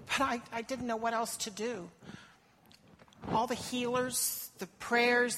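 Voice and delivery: a foreign mother telling her story, anxious; desperate mother. Acted. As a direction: speak as the mother, worn with worry. Monologue as the Canaanite mother.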